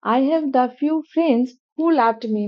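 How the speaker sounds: words of the sentence spaced out; slow example sentence. Shown as a demonstration. Teacher repeats the example slowly for the class. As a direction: read it slowly, like dictation. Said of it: "সেক্ষেত্রে".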